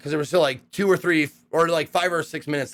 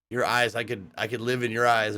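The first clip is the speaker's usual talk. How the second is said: soft, lower, swooning compliment; dreamy; 7 semitones lower, 3 dB quieter than usual. Retold or imitated. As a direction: gush over his eyes softly. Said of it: "or something, something like that".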